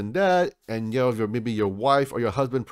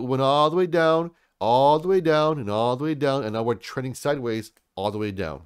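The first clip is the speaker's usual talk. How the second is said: stepping downward. Shown as a demonstration. Vlogger tracing the price slide, voice descending in stages. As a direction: pitch and volume sinking with each repeat.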